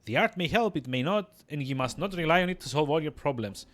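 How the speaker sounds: lightly voiced wise crone; cautioning old midwife. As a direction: warn the pupil as an old midwife.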